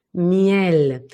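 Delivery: MIEL drawn out at the lips; front placement. Shown as a demonstration. Voice coach shows the front station, lips forward. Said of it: "Y muy delante".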